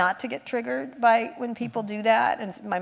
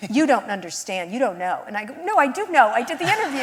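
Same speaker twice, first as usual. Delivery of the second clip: exasperated arguing; 3 semitones higher, 5 dB louder than usual. Retold or imitated. Arguing with mom over the interview.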